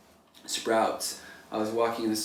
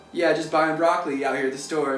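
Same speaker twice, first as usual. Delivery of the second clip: upbeat friendly; 5 semitones higher, 5 dB louder than usual. Retold or imitated. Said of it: "I'm like".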